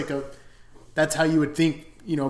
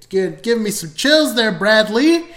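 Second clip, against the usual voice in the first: much higher, much louder thrilled exclaim; excited rave; 8 semitones higher, 12 dB louder than usual. Real, not acted. Reviewer cheering the actor's big scene, loud and thrilled. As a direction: call out the praise with real delight.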